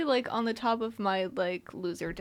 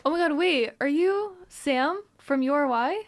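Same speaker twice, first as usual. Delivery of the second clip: starstruck; 5 semitones higher, 5 dB louder than usual. Pretend. Mock starstruck fan meets DJ.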